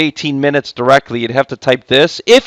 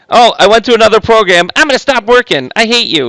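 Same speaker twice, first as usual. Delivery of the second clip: mock frustration; 8 semitones higher, 4 dB louder than usual. Calculator opens wrong program.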